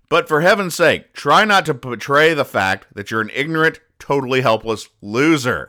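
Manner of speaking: a mother belittling her son, loud and scornful; scolding mother. Retold or imitated. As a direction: sneer it out like a disdainful mother. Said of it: "I'm gonna have to quote this verbatim".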